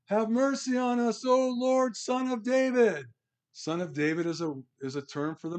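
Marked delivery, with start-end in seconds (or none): 0.0-3.1 high, drawn-out plea for mercy; beseeching cry, pitched well above normal. Acted. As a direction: call out slowly in a raised, pleading voice. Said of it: "cried out, saying".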